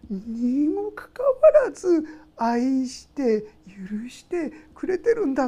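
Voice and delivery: slow, hushed whisper of wonder; awed whisper. Pretend. Preacher voicing a believer's wonder, slow whisper. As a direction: breathe it out, amazed at being loved.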